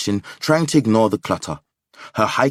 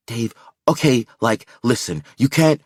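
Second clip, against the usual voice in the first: aggrieved; 3 semitones higher, 4 dB louder than usual. Acted.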